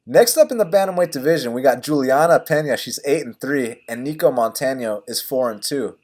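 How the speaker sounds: clean announcer intro; practicing a speech. Shown as a demonstration. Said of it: "let me start this over".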